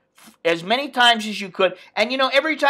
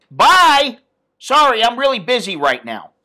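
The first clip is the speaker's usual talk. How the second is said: a bright, loud, high bye; breezy brush-off; 4 semitones higher, 4 dB louder than usual. Retold or imitated. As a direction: toss her off brightly. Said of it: "you're like".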